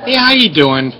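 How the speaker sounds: slight lisp after oral surgery. Real, not acted. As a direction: talk through a sore mouth. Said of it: "talking with a little bit of a lisp today".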